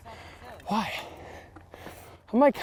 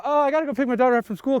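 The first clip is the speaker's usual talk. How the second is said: mock excuse; 4 semitones higher, faster than usual. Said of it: "I gotta pull the ... card".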